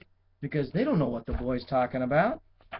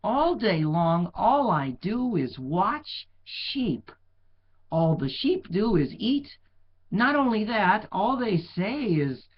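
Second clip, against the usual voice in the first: a touch of whiny, slow complaint; slow, grumbling kid; lightly voiced bored boy; 5 semitones higher, 5 dB louder, slower than usual. A narrator's reading. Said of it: "he thought".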